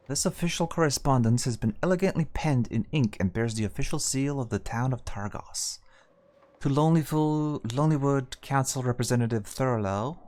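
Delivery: ASMR reading. Acted. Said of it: "in A S M R voice today?".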